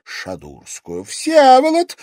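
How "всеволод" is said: piercing high, very loud scream of a name; shriek. A narrator's reading. Terrified lady to her husband, shrieking. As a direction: shriek for help. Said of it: "взвизгнула Вероника".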